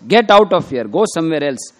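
high, loud retold scolding; a storyteller's shrill, loud wife chasing off a beggar. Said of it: "she spoke in a very shrill voice".

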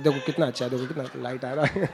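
amused imitation of a father selling the torch; father showing off torch. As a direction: chuckle while coaxing the child. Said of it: "He said".

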